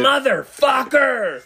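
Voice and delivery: slow, high, loud wail of a curse; drawn-out anguished curse. Retold or imitated. Man mourning his eaten fish, wails a slow curse. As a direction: stretch the curse out in despair.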